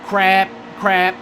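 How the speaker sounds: sudden cry of dismay; frustrated outburst. Real, not acted. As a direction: yelp as the fuel runs dry. Runs out of fuel mid-race.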